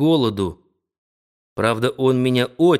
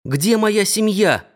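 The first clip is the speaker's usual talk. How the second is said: higher, slow, desperate repeat; breathless, rising; 8 semitones higher, slower than usual. Acted. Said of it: "задыхаясь".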